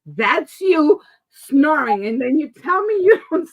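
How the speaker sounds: triumphantly catching him out; laughing gotcha. Retold or imitated. Wife catching husband snoring, laughing.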